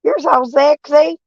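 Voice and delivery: high, slow, sugary mock compliment; mock flattering voice. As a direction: coo it like a gushing admirer. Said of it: "They go".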